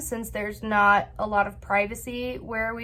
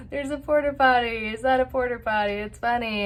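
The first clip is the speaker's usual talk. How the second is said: imitated giggling. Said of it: "we start to giggle".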